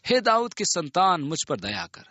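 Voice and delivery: insistent plea, starting high and falling away; narrator's mild shout, pleading for mercy. A narrator's reading. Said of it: "वह और भी चिल्लाने लगा". (और भी पुकारते हुए, हल्की चिल्लाहट)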